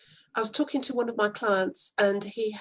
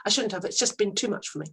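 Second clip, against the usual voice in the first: apologetic client; faster than usual. Pretend. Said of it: "you might just get an apology".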